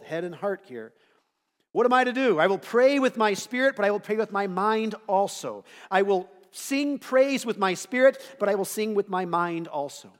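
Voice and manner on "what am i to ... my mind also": emphatic scripture reading. Acted. Reading Paul quote.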